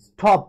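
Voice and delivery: স্টপ said as one strong stressed beat; stressed stop. Shown as a demonstration. Teacher showing students where স্টপ takes its stress. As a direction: lean into স্টপ. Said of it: "স্টপের মধ্যে জোর পড়ে".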